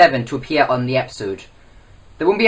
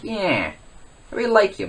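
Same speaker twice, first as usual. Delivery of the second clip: higher-pitched put-on voice; lightly voiced impression, pitched up; Eric; 5 semitones higher, 3 dB quieter than usual. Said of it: "do my best impression of Eric".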